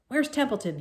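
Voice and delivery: high, loud urgent demand. A narrator's reading. Wilbur demanding where the rat is, loud urgent. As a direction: bark out the question. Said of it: "he demanded".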